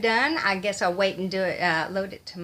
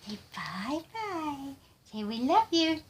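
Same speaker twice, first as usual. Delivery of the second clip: put-on cutesy baby talk; 7 semitones higher, slower than usual. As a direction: coo goodbye and kisses for a little one. Cooing farewell on behalf of Sophie.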